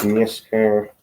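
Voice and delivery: slow, really nasal nascar; really nasal pronunciation. Shown as a demonstration. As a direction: drag out nascar through the nose. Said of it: "really nasal".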